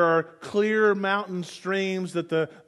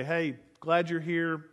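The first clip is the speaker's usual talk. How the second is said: quick brush-off; 5 semitones lower, 8 dB quieter, faster than usual. Retold or imitated. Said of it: "sent your son out to kinda say".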